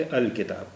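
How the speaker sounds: الکتاب with the lam sounded; الکتاب, lam clearly heard before ک; demo of al-kitab. Shown as a demonstration. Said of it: "لام کا اچارن بھی ہوگا".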